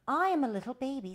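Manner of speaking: put-on high, loud, quick baby voice; little baby. A narrator's reading. Baby introducing himself to the old uncle, high childlike voice. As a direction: pipe up like a small child. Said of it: "said the little baby".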